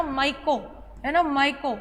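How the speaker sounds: "माइको" said without an r, my-ko; pronounced Myco. Shown as a demonstration. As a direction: say "माइको", not माइक्रो. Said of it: "माइक्रो नहीं बेटा".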